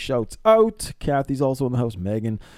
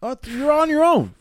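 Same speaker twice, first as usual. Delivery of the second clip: high, loud squeaky instructor; a hammed-up selfish instructor; yoga instructor voice; 13 semitones higher, 5 dB louder than usual. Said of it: "I'm the instructor there".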